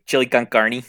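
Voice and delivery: chili con carne with Spanish flair. Shown as a demonstration. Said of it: "You gotta say it like this".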